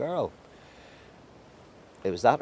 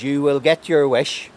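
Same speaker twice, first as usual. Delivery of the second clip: loud, slow, drawn-out threat; scowling curse; 5 semitones higher, 9 dB louder than usual. A narrator's reading. Old woman curses the family as she leaves, scowling. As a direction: lay the curse on heavily, raised and deliberate. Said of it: "turned on her heel with a scowl and says".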